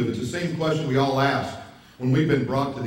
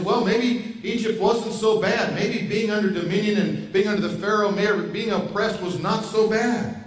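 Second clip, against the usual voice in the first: wistful grumbling; 4 semitones higher than usual. Retold or imitated. Israelites wishing for Egypt.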